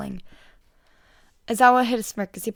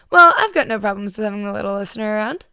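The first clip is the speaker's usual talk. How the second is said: Mike voice; 9 dB louder than usual. A narrator's reading. Mike's loud radio-host voice.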